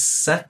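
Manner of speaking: "sa" with the pitch going up; rising tone. Shown as a demonstration. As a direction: raise the tone sharply on "sa". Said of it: "That's telling you to raise your tone".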